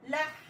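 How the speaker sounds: لح with a full l, ending on a breathed ḥ; lah, resting on the final ḥ; stopping on ḥa. Shown as a demonstration. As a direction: stop لح on the ḥa with no vowel. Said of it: "نقول اللام كاملة ونقف على الحاء".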